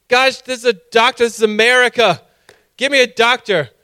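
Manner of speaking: loud, high, exasperated complaint; indignant demand. Retold or imitated. Patient demanding a doctor from hospital staff, indignant and loud.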